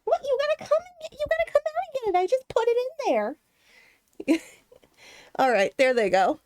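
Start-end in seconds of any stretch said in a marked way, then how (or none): 0.0-4.4 much higher sing-song coaxing; high coaxing pet voice. Real, not acted. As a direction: coax the little animals out to eat. Coaxing pets out for food.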